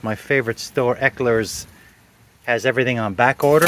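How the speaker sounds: dry, understated sarcasm; mildly sarcastic mock praise. Real, not acted. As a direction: praise it with a touch of irony. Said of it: "I'm being very sarcastic".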